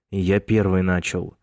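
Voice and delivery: ordinary delivery, nothing marked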